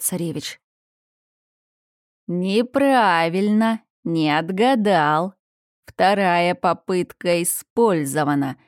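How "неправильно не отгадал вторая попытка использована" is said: usual speaking voice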